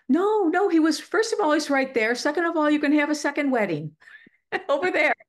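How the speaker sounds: high, brisk correction with a laugh near the end; cheery rebuttal. Retold or imitated. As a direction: talk a lamenter out of it, amused. Voices cheerful rebuttal to lamenting members.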